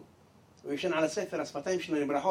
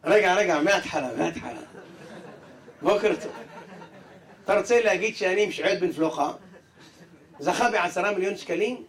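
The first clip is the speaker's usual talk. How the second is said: stunned disbelief. Acted. Man realises he won.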